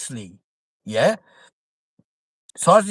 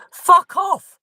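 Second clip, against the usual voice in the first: loud, high shouted dismissal; shouted fuck off; 12 semitones higher, 6 dB louder than usual. Real, not acted. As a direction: bark it out in disbelief. Outburst at gunman analogy.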